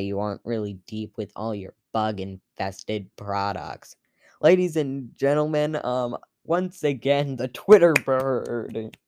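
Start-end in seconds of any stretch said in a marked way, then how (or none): 4.4-9.0 announcer voice. Acted. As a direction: announce him like a game show host. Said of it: "you can stop doing that now".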